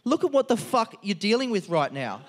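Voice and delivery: mock freak-out. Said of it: "I started freaking out".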